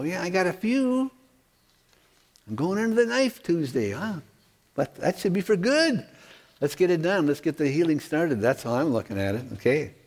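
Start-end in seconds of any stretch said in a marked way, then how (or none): 0.0-8.4 lightly voiced churchgoer, pitched higher; congregant admitting troubles. Pastor answers for the congregation about their difficulties, lightly acted higher voice. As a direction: own up in a higher everyman voice. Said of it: "we'd all have to go".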